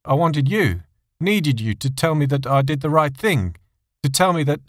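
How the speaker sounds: halting, stammering answer. A narrator's reading. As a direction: stumble over the words. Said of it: "John stammered his answer".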